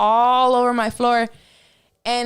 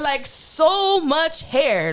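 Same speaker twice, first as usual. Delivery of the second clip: stunned; 5 semitones higher, much slower than usual. Real, not acted. Stunned, drawn out.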